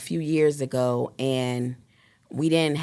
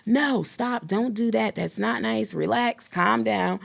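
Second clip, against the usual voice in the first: higher, coaxing mother's voice; higher voice of a mother calming her son; soothing mom to son; 6 semitones higher than usual. Retold or imitated. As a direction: talk a worried mom's child down gently. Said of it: "So I'm like".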